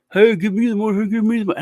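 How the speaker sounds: mock begging. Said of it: "bothered by, like, thirty people".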